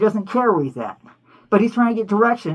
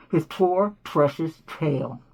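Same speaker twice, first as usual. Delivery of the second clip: mocking; 6 semitones lower, 5 dB quieter, slower than usual. Real, not acted. Mocking Bugs' vanity.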